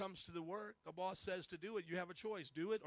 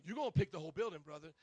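a hint of a stern drill-sergeant brother, louder; 3 semitones lower, 6 dB louder, faster than usual. Brother T ordering the pastor to weed, lightly voiced stern order. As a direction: bark it flatly like a drill sergeant. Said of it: "he's like".

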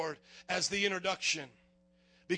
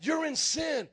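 stern call; 4 semitones higher, slower than usual. Retold or imitated. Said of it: "what he was saying was".

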